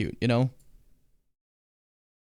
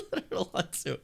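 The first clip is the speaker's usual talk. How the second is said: laughing through pain; 13 semitones higher than usual. Real, not acted. Laughs about pain after stretch.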